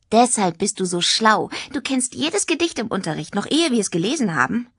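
lightly voiced, lilting teenage girl; a hint of an impressed, chatty girl; chatty schoolgirl. Tanja marvels at Jack being clever, lightly voiced schoolgirl.

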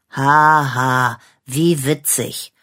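dry sarcastic fake laugh. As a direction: scoff at the silly idea. Dog mocks penguin idea.

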